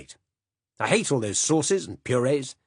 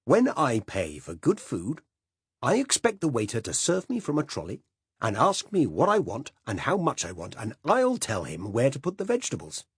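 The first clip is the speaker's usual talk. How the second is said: louder, higher blustering tirade; passionate rant; 4 semitones higher, 4 dB louder than usual. Acted. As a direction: hold forth like an outraged old gourmand. Silas's passionate address on food.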